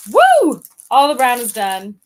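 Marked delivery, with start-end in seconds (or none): 0.1-0.6 high, loud "woo"; excited whoop. Real, not acted. Crafter finishing all the brown, high loud whoop. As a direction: let out a celebratory whoop.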